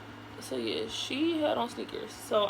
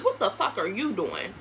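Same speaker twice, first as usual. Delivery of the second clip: retold angry retort; 4 semitones lower than usual. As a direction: lower comeback, throwing his question back. Her retort to his same question.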